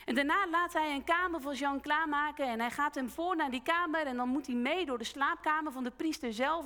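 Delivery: ordinary delivery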